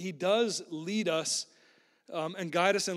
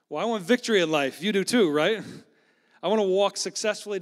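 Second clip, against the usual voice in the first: louder, rising to the crowd; a preacher rallying his listeners, louder; rousing call; 2 semitones higher, 6 dB louder than usual. Real, not acted. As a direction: lift it up to the congregation. Rousing the congregation.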